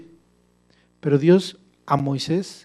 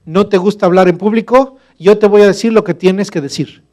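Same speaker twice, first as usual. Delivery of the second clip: lightly voiced God, louder and higher; God reassuring Moses; 4 semitones higher, 6 dB louder than usual. God assuring Moses he will help, louder. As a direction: promise him firmly, a bit louder. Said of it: "otra vez le está diciendo".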